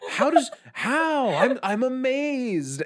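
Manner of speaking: amazed. Retold or imitated. Retelling own disbelief about Emma.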